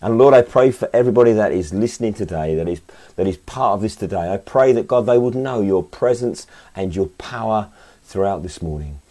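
earnest spoken prayer. Acted. Leads a prayer.

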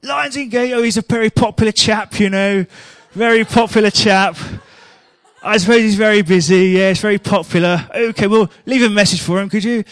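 mock caller voice. Prank caller, louder mock voice.

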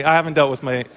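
usual speaking voice

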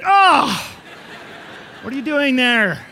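sudden jump up in pitch and volume, startled awake. Retold or imitated. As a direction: gasp it out, caught off guard at 2am. Woken by child staring at night.

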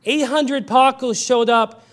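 slow and heavy, now meant sadly; earnest sorrow. Acted. Preacher turning the joke into sorrow, slow and earnest. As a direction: retell the joke as a heartbreak. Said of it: "it's also deeply sad".

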